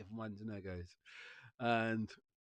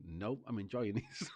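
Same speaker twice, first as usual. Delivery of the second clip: laughing; slower than usual. Retold or imitated. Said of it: "My stubbornness going".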